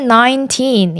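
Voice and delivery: put-on "nineteen" with TEEN stressed. Shown as a demonstration. Teacher modelling numbers for learners, stress on final syllable. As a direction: lean on the end of "nineteen". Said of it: "뒤에 나오는 틴에 강세를 주어서".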